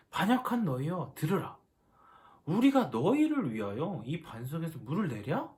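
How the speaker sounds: mild angry rebuke, read as scripture; lightly acted indignant leader scolding the people; angry Moses. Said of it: "모세가 지금 이스라엘에 화가 난 거예요". (살짝 화난 모세처럼 꾸짖듯이)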